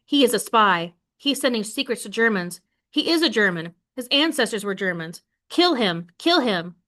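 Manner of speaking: a lightly voiced angry mob yelling accusations; mild mock shouting, building to kill him. Angry mob accusing Harry, understated shouting.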